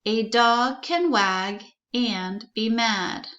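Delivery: pounding out the sentence. Shown as a demonstration. Teacher pounding out the sentence for the class. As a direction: tap each word out slowly. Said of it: "so I can pound out the sentence".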